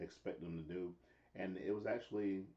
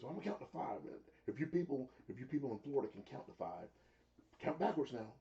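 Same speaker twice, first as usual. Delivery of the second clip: mock Jericho taunt; 5 semitones higher than usual. Retelling Jericho mocking crowd.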